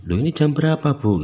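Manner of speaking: bertanya kaget dengan nada tinggi. Retold or imitated. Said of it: "Lalu saya kaget". (bertanya dengan nada kaget)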